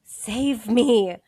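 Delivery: loud, panicked cry for help; muffled trapped man yelling for help; desperate shout. Acted. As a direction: yell as if trapped. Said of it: "you hear a male voice again say".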